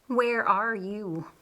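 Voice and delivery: slow, breathy teasing whisper; playful whisper. Acted. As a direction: coax him back gently, under the breath. Mary teasing her daydreaming brother.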